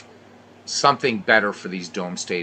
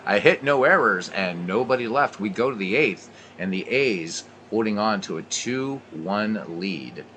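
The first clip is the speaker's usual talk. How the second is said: play-by-play. Acted. Play-by-play commentary continues.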